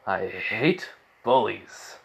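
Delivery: slow, low, restrained anger; pissed off. Retold or imitated. Boy confronting bullies, slow simmering mock anger. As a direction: draw it out slowly, acting quietly angry. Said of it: "Zuko's pissed".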